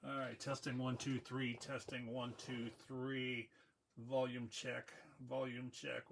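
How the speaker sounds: muffled, like talking in a barrel; thin and distant, like a tin can. Real, not acted. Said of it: "like you were in a barrel".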